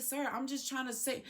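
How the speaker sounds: timid retold attempt to explain; meek protest. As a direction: shrink to a small, hushed voice. Her meek reply to shouting judge.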